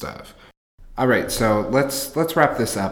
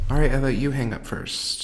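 fast, sweet lovers' phone goodbye; giggly late night call; 4 semitones higher, faster than usual. Acted. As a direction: coo it like a teen on a late call. Cutesy phone goodbye bit.

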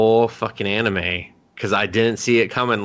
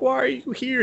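retold questioning. Retold character questions his friend.

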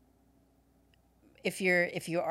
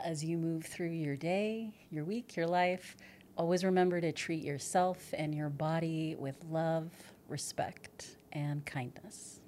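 calm sign-off, softening to a near whisper; yoga class closing. Shown as a demonstration. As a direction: gently close the class, slowing at the end. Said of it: "how you conclude your classes".

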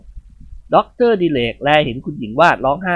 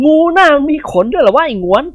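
laughing; 11 semitones higher, 5 dB louder than usual. Acted. Phon laughs at Ngouan.

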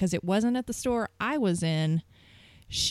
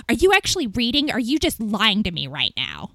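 mock irate caller. Retold suspicious angry caller.

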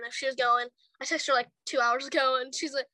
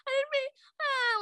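retold tearful apology; 11 semitones higher than usual. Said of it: "I started bawling that day".

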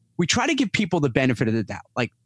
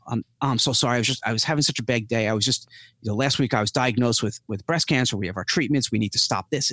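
apologetic customer; 4 semitones lower than usual. Retold or imitated. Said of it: "this happened last week".

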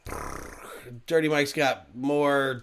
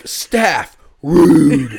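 laughing; 2 semitones higher, 10 dB louder than usual. Real, not acted. Reading the rude review aloud.

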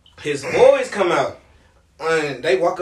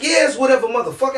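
higher, louder dismissive comeback; irritated retort; 5 semitones higher, 5 dB louder, faster than usual. Retold or imitated. Resident brushing off the storyteller in an argument, irritated. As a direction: imitate an annoyed man brushing someone off. Acted quarrel, resident snapping back.

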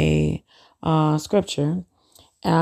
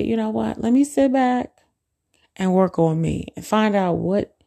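resolved self-talk; 5 semitones higher than usual. Pretend.

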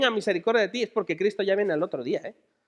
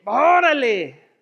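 amazed exclamation; 6 dB louder, much slower than usual. Real, not acted. Exclaims as Jesus stops.

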